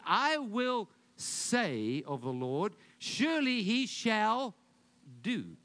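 "I will say" drawn out slow and stressed; slow emphasis. Shown as a demonstration. Preacher pointing out the psalm's wording, slow and stressed. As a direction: lean hard on "I will say". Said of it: "Now notice he said".

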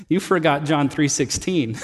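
sheepish chuckle through the words; laughing. Retold or imitated. Friend teasing her pastor with a laugh. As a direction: tease him gently with a laugh. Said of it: "she got this really sheepish, beautiful grin".

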